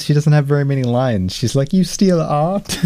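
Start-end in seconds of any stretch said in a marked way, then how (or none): 1.7-2.8 slow, high, hammed-up Irish accent; mock Irish accent. Mocking the actress's one line in a bad Irish accent. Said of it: "Because that's an Irish accent".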